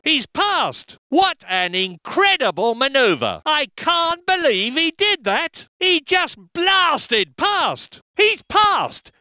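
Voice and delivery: high, thrilled overtake call; excited call. Acted. Race commentator calling a pass to viewers, thrilled and high. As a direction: call the pass like you can't believe it.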